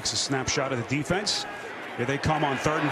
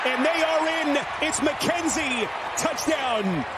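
touchdown call; 5 semitones higher than usual. Real, not acted. Touchdown call in red zone.

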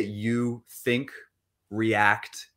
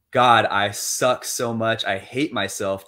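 self-hating; 3 dB louder, slower than usual. Shown as a demonstration. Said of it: "you just shift it from".

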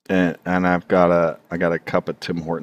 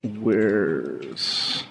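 angry horde warrior; 2 semitones higher, 3 dB louder, much slower than usual. Acted. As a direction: bellow it like a medieval brute. Angry horde dude voiced.

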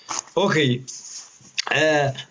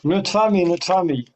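yelling across the room; 6 semitones higher than usual. Real, not acted. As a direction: shout it so they hear. Repeating for bad connection.

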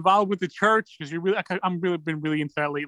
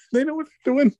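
higher, amused through a laugh; laughing knowingly; 9 semitones higher than usual. Real, not acted. Repeating the store trick line to a friend, laughing. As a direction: chuckle it like a knowing joke.

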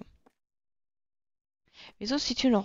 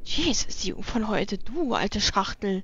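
put-on grumpy old man; much slower than usual. Grumpy character insulting.

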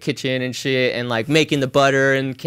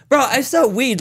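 exasperated protest; 10 semitones higher than usual. Retold or imitated. Pleading with police.

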